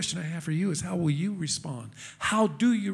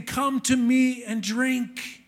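slow, higher-pitched proclamation; raised, measured call; crying out; 5 semitones higher, slower than usual. Retold or imitated. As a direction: call out the invitation, drawing the words out. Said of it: "cried out loudly".

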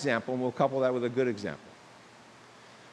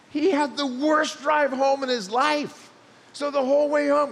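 ramp it up like a comic punchline; worked-up storytelling; 11 semitones higher, 6 dB louder than usual. Real, not acted. Preacher telling the congregation a funny story, louder and higher. Building to the pastor's rant.

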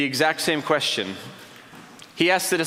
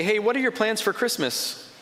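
high, breezy, clueless small-talk voice; mock the friends who change the subject; oblivious friends' chatter; 5 semitones higher than usual. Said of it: "But then they say".

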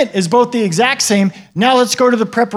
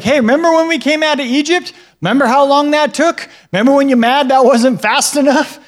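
raised, lively voice of God listing grievances; voicing God reminding; 5 semitones higher than usual. Preacher voicing God reminding the people, raised and lively. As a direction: mildly play God nudging his people's memory.

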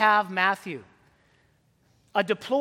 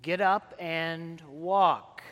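slow dramatic command; 3 semitones lower, much slower than usual. Shown as a demonstration. Preacher quoting Jesus to the congregation, slow and weighty. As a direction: Get up and walk drawn out very slowly, each word weighed. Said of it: "So we'll try that again".

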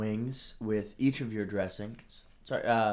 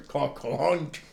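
slow, drawn out clunk; phone hang up click; 3 semitones higher than usual. Retold or imitated. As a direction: repeat the clunk more slowly. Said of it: "his was".

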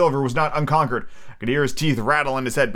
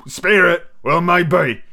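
scornful; 5 semitones higher, 5 dB louder, much slower than usual. A narrator's reading. Silver scoffs at ghost.

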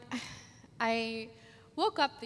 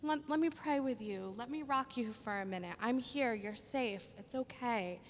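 softer, fast, tender comforting; gentle soothing mom; 3 semitones higher, 5 dB quieter than usual. Retold or imitated. Mother comforts her crying foster son at night, soft and tender. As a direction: hush a scared child back to calm. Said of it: "I'll be like".

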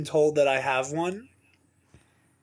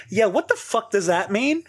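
higher-pitched baffled reply; retold bafflement; 5 semitones higher than usual. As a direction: imitate a friend's bewildered question. Retells baffled friend's reply.

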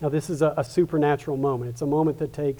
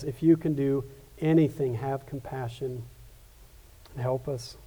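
hushed desperate plea; 2 semitones lower, 5 dB quieter than usual. Acted. Father's last quiet plea.

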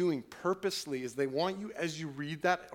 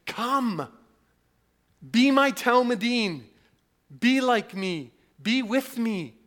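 Jesus' invitation; 7 semitones higher, 9 dB louder, slower than usual. Acted.

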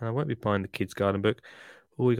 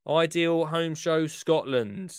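grand slow announcement; 6 semitones higher, slower than usual. Pretend.

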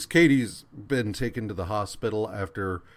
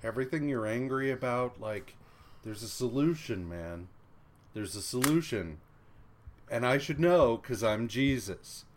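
softer, calming mock guru voice; soothing friend; 4 dB quieter than usual. Friend calming an angry Johnny with soft reassurance. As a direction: talk him down gently, like a serene guru. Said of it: "he's just like".

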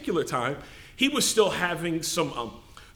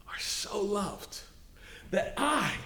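whisper; 3 semitones higher, 9 dB quieter, much slower than usual. Acted. Hushed climax of sermon.

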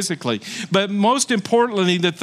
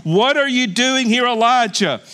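God's question, raised and firm; 4 semitones higher than usual. Acted. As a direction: call out as God questioning. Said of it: "a voice came to him and said".

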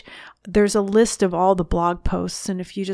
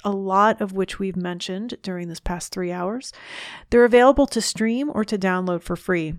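podcast outro read. Acted. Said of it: "I'm going to read this outro".

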